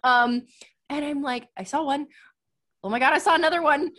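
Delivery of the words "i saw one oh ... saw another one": high, fast excited outburst; thrilled to spot it. Retold or imitated. Retold excited spotting.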